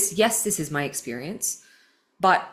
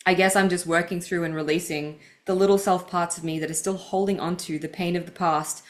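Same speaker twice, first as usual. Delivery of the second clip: measured, earnest read of personal writing; deliberate, heartfelt book reading; reading aloud. Acted. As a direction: read your own confession out with care. Reads her book passage aloud.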